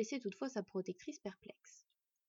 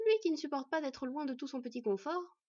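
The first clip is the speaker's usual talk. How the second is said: higher-pitched wifely gibe; ironic; 5 semitones higher than usual. Acted. Wife teasing husband about his comforts, ironically. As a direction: needle him with irony. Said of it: "ironisa sa femme".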